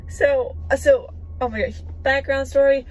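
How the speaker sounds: loud, bubbling over; can barely hold it in; excited. Real, not acted. Overexcited before telling news.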